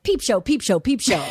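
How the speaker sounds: chanted hawker cry, lightly voiced; sing-song like a street barker calling out; mock hawker call. S0 recalls Times Square hawkers, mock barker chant.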